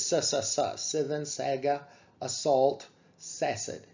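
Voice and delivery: "sa, sa, sa" then "seven saga", "assault", "cessed" each with a marked S onset; alliteration shown. Shown as a demonstration. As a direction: tap out the S sounds of "saga" and "cessed" like a beat. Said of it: "What you hear is".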